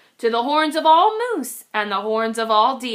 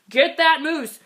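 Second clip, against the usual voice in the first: calling out; 3 semitones higher, 3 dB louder than usual. Acted. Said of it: "heard a voice call".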